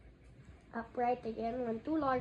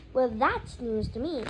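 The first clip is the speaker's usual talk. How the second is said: rising temper; 7 dB louder than usual. A narrator's reading. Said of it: "his temper rising".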